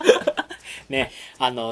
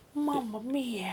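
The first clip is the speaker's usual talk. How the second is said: put-on blissful character voice, higher and quieter; 10 semitones higher, 15 dB quieter than usual. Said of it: "気持ちいいマリオのものまね".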